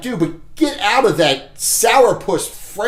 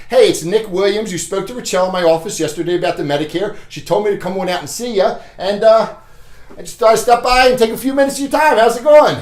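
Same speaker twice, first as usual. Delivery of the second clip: quick, upbeat salesman's introduction at the door; door pitch demo; faster than usual. Shown as a demonstration. Salesman greets client at door, brisk and upbeat. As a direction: rattle off the intro with forward energy. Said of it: "I'll do it one more time".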